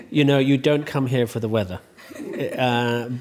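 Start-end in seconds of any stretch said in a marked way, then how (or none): 0.1-1.8 words spilling through a real laugh. Real, not acted. Host joking to guest about Irish weather, laughing. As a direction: chuckle through the line.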